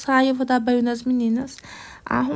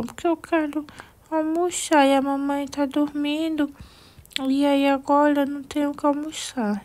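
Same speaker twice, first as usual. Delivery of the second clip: put-on little girl complaint; 3 semitones higher than usual. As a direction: whine a little as the hungry daughter. Doll Ana complains.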